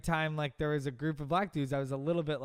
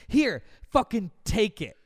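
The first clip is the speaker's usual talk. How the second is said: louder, higher mock-annoyed surrender; imitated fed-up thief; retold exasperation; 6 semitones higher, 6 dB louder, slower than usual. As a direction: act out grudgingly handing it over, slowly. Acts thief giving up phone.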